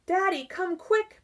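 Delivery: high, loud urgent call; child calling father in the night. Acted. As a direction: call for Daddy from bed. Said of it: "Barry called".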